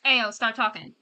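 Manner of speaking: a loud, joking "Ayo, stop talking" to the screen; playful loud stop. Real, not acted. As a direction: streamer cuts off a chatty game character, loud and joking. Streamer scolding a game character.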